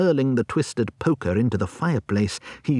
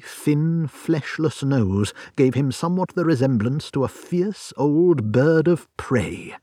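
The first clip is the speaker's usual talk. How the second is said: plain reading voice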